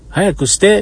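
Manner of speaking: light impression of a child hurrying his mother; imitating the kid. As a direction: mimic the kid next door calling out. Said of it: "って言ってます".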